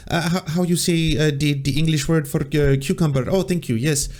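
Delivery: lightly put-on fake Spanish accent; a hint of a pretend Spanish accent, groping for the word; mild mock Spanish accent; faux Spanish accent. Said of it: "speaking in a faux Spanish accent".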